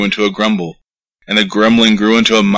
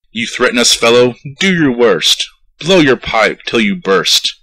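an offended mayor daring the piper; mild indignant outburst; 3 semitones higher than usual. Acted. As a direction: scoff at the piper's threat. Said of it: "cried the mayor".

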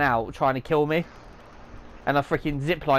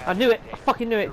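triumphant; 7 semitones higher, faster than usual. Real, not acted. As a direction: crow that you were right. Triumphant shout of suspicion.

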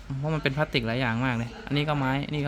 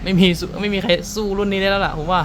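excited; 4 semitones higher, 4 dB louder than usual. Real, not acted. Raving about speaker value.

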